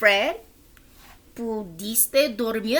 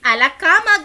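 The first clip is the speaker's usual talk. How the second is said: mild yell; 6 semitones higher, 8 dB louder, faster than usual. Acted. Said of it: "gritó Ted".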